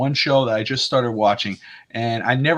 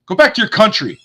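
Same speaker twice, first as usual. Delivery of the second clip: loud, higher-pitched jeer; imitated angry shout; mock heckling; 6 semitones higher, 7 dB louder than usual. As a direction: call it out like a hostile passer-by. Retelling passer-by's insult.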